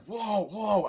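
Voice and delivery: high, loud whooping; mock excited whoa. Riders in speeding karts, high excited whoops. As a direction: whoop like a thrilled passenger.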